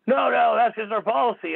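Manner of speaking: lightly voiced store clerk insisting; imitating the clerk.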